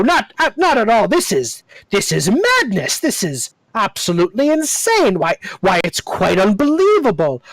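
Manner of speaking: rapid flustered babbling, pitch jumping high; jabbering. Acted. Harkwell babbling to the adventurers, flustered and incredulous. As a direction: babble on in growing disbelief. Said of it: "He jabbers on like this".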